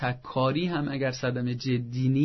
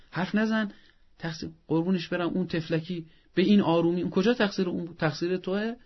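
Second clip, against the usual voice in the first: a hint of a mother snapping at her older son, pitched up; mock scolding mother; 4 semitones higher than usual. Mother to older son, blaming him: lightly acted scolding. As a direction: scold him while fussing over the little one.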